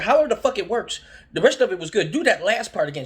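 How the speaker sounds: hammed-up frustrated shouting; mock angry yell. Retold argument, demanding repeat.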